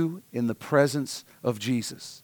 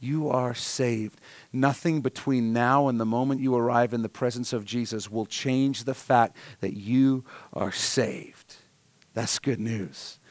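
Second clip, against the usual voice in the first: gentle reassurance; 3 semitones lower, 4 dB quieter than usual. Real, not acted. Pastor reassuring congregation, softly.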